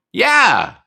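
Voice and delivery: high, loud cheer; excited whoop. Real, not acted. Cheering as his friend joins, excited whoop. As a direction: let out a joyful yell.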